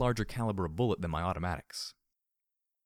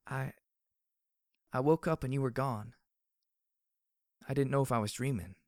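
higher, hesitant character voice; shaken Glory; 6 semitones higher than usual. A narrator's reading. Glory woke alone in the dark, shaken and unsure. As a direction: falter at first, then speak up in a higher voice.

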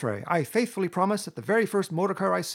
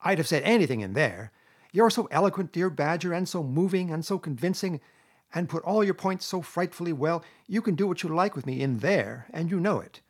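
high, louder self-justifying Toad; impatient; 6 semitones higher, 5 dB louder than usual. A narrator's reading. Toad excusing his false promise to badger, impatient. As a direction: brush it all aside, high and insistent. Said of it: "said Toad impatiently".

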